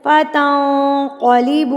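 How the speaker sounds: फतंकलिबू with heavy q and drawn-out final oo; heavy Quranic qaf. Shown as a demonstration. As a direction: recite फतंकलिबू slowly with a full, thick q. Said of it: "इसको भी मोटा करके".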